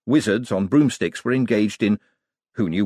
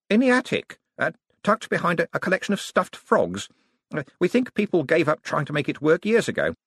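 higher-pitched voice with small uhs; hesitant young wizard; 9 semitones higher than usual. Acted. Young wizard explaining where the cabinet was found, hesitant. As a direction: explain it eagerly, slightly awkward.

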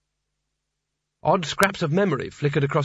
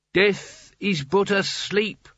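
very slow, higher, hollow voice of the dead; ghostly chorus; 6 semitones higher, much slower than usual. Acted. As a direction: speak as two hundred dead mages at once. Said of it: "said the dead mages".

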